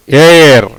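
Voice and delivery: "ஏர்" with a drawn-out first vowel; long vowel demo. Shown as a demonstration. Teacher reads out the finished word, "ஏர்" with long vowel. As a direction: stretch the vowel of "ஏர்" before the r. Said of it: "நெடில்ல வருது".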